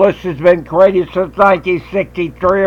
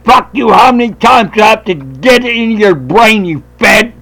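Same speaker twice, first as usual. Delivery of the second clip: retold curse; 3 semitones higher than usual. Retold confrontation climax.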